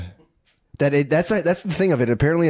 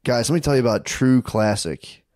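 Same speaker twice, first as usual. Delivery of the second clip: measured, deliberate sales pitch; podcast ad read; slower than usual. Real, not acted. Host pitches True Classic shirts to listeners, ad read.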